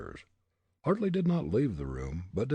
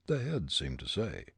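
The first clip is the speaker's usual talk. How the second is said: ordinary delivery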